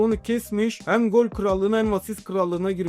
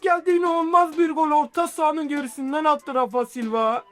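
screaming football commentator; 6 semitones higher than usual. Acted. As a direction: shout the goal like a live commentator. Long-range goal call.

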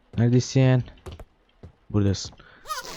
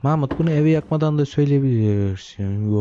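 mock scolding parent; 4 semitones higher than usual. Scolding baby, higher.

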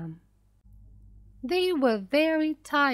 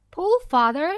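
high, loud urgent call; daughter's shouted command; shouting; 6 semitones higher, 6 dB louder than usual. A narrator's reading. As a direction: call out sharply to urge on the rower. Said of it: "she shouted".

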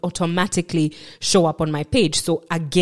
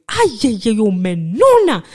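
high, loud wail of amazement; exclaiming uncle; 4 semitones higher, 5 dB louder than usual. Retold or imitated. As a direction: imitate an uncle loudly exclaiming. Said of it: "I remember my uncle going".

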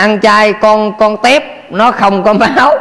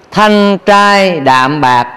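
slow repeat; much slower than usual. Shown as a demonstration.

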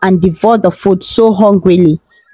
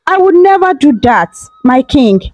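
higher, pleading denial; begging; 5 semitones higher than usual. Acted. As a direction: plead your innocence, voice raised high. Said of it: "crying and begging".

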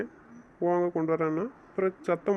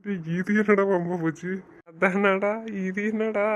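shocked; 4 semitones higher, 3 dB louder, slower than usual. Acted. Husband shocked by quarrel.

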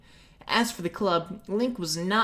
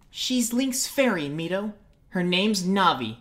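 sternly; 2 semitones higher than usual. Acted. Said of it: "Saria said sternly".

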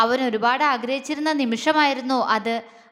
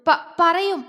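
stammered start, then a defiant reply; defiant, hiding fear; 4 semitones higher, 3 dB louder, much slower than usual. Acted. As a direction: bluff bravely past a stammer. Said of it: "ഉള്ളിലെ പേടി മറച്ചു വെച്ച് അവൾ വീറോടെ പറഞ്ഞു".

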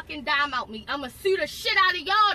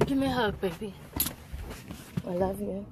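soft, low, loving; 6 semitones lower, 5 dB quieter than usual. Real, not acted. Mother comforting her child during arrest, tender.

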